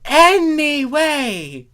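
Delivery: high, loud, slow shout; shout over them. A narrator's reading. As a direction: cut in to retake control. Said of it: "Thorax shouted".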